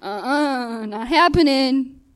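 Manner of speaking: drawn-out, rising mock refusal; stubborn refusal. Refusing God in retold exchange.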